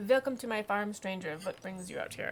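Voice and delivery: put-on farmer greeting a stranger with a German accent. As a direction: welcome them in a German accent. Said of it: "I have no idea why it's a German accent".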